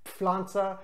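Pflanze with the P sounded before the f; German Pflanze, both p and f audible; P pronounced. Shown as a demonstration. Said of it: "P's are pronounced".

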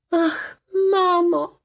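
put-on high, slow, tearful girl's cry; a small broken sob of a word; unhappy girl. A narrator's reading. Unhappy daughter answering her mother, tearful. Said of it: "odpowiedziała nieszczęśliwa dziewczyna".

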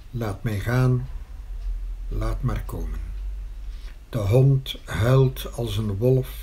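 deliberate verse reading, pausing after each line; poem recitation. Acted. Poet reciting verse on death and the mother, deliberate recitation. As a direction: recite the refrain with weight, letting lines settle.

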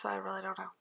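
soft unvoiced whisper. Real, not acted. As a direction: breathe the words out, no voice. Same words said aloud at line 61.

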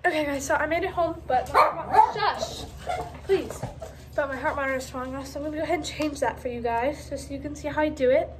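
shallow breathing after the stairs; talking between quick breaths. Real, not acted. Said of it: "Sorry, I'm out of breath".

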